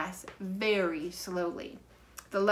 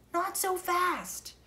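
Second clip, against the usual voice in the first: slow, high warning; cautious boy voice; 12 semitones higher, slower than usual. A narrator's reading. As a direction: hold her back, slowly and carefully. Jack holds Annie back.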